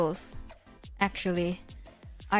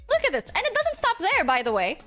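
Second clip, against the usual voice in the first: excited; 5 semitones higher than usual. Real, not acted. Excited showing off new toggle.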